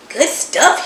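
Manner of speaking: mumbled through a mouthful of pie; mouth full. Acted. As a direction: mumble it while chewing. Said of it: "he mumbled through a mouthful".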